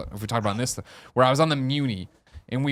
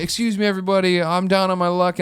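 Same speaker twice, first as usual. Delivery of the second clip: higher, put-on begging spiel; panhandler's announcement; 5 semitones higher than usual. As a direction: imitate a panhandler addressing a train car. Acts out panhandler addressing the train.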